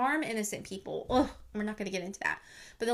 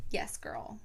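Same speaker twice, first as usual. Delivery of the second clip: soft whispered cheer for the mother; whispered approval; 3 semitones lower, 5 dB quieter than usual. Real, not acted. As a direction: cheer her on under your breath.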